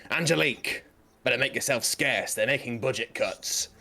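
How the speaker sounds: NPC in a put-on British accent; lightly done British accent. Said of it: "my British accent garbage".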